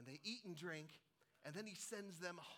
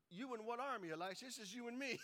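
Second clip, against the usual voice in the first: incredulous servant; 6 semitones higher, 3 dB louder than usual. Acted. Servant doubts Elisha in disbelief.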